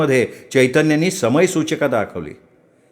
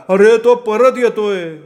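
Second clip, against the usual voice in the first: high, slow, stretched-out yell; acted high-pitched holler; shouted warning; 9 semitones higher, 4 dB louder, slower than usual. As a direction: shout the alarm across a distance. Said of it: "Aniket पुन्हा ओरडला".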